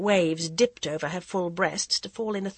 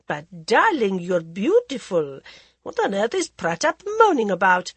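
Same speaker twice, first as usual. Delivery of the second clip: languid society lady, teasing; a drawling, worldly hostess; Lady Modi voice; 2 semitones higher, 5 dB louder than usual. Acted. Lady Modi flatters Jaya.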